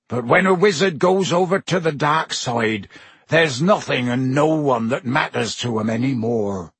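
a lightly voiced gruff giant; a hint of a big-hearted gamekeeper; Hagrid's voice. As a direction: talk it out like a big rough friend. Hagrid's speech in story.

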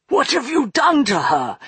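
high, pressing demand. Acted. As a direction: demand an answer sharply. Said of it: "he demanded of Buster".

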